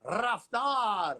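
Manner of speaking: long rolled R into a drawn-out name; announcer's hype call. Real, not acted. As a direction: roll the R and stretch it like a ring announcer. Live host hyping the guest's name. (लंबे र के साथ जोशीली announcer वाली पुकार)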